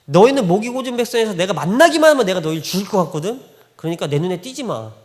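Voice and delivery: stern retold threat, easing off at the end; angry God. God to the stubborn people, mildly angry warning. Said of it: "얼마나 화가 나셨겠어요".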